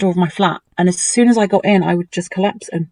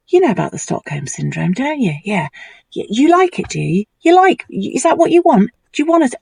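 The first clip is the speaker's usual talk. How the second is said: creepy taunting boss; 4 semitones higher than usual. Retold or imitated. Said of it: "he was just mental, mental and horrible".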